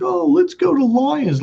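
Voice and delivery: lightly mocked drunk, high and slow; drunk brother. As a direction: imitate a drunk brother making a suggestion. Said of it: "my brother was drunk".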